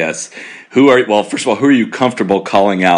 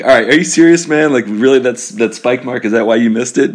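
higher-pitched, incredulous needling; mock disbelief; 5 semitones higher than usual. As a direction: play at doubting a golfer's excuse. Mock challenge to a player.

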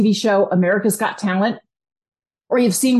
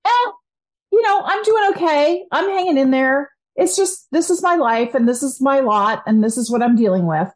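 higher, shrugging mock resignation; resigned; 3 semitones higher than usual. Someone settling for their life, lightly resigned. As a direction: sigh it off as your lot in life. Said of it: "A ten is".

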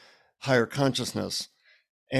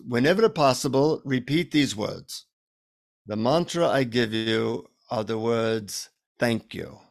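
Indian guru confiding; 2 semitones lower than usual. Retold or imitated. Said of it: "He leans in to whisper in my ear".

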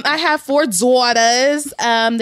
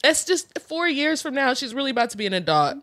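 sad; 2 semitones higher, 4 dB quieter than usual. Real, not acted. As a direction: drag it out sadly. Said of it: "That makes me so sad".

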